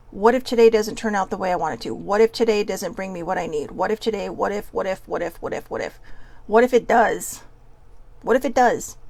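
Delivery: worried questions fading away; fearful what-ifs. Acted. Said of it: "a lot of that comes from fear".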